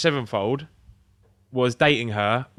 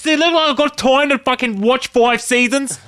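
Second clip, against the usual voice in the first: much higher, louder hammed-up rant; mock exasperated cop; 11 semitones higher, 6 dB louder than usual. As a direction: rant like a fed-up sergeant.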